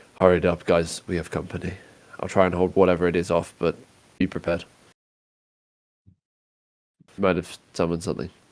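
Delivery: voice dropped as low as it goes. Voicing a character calling quietly to the party: lowest voice he can manage. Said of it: "in the lowest voice he can reasonably get".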